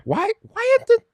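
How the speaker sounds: very high falsetto annoyance; high-pitched, exasperated outburst; annoyed. Real, not acted. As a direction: squeak it out in exasperation. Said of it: "now I'm getting annoyed".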